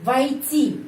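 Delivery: "Войти" with a clearly marked stress; word stress demo. Shown as a demonstration. Teacher repeats the word for entering, stressed clearly. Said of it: "penekanannya di sini".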